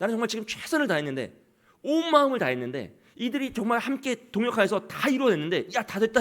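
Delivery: high, eager, relieved cheer, voice lifted high.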